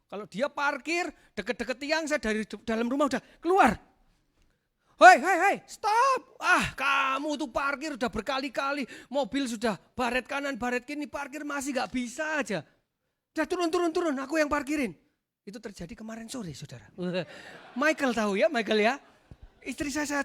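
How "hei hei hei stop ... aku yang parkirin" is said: loud, high exasperated shouting at wife; bossy outburst, voice raised sharply; rough husband yelling. Retold or imitated. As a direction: re-enact an impatient husband hollering orders. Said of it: "saya lebih kasar dari dia".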